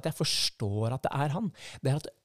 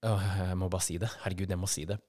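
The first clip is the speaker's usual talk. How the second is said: lower, pressing inner voice; a hint of urgent self-talk; 4 semitones lower, faster than usual. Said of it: "Og så tenker jeg".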